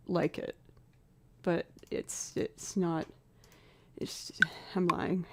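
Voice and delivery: quick whispered confession; whispered aside. Real, not acted. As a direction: drop to a whisper for the admission.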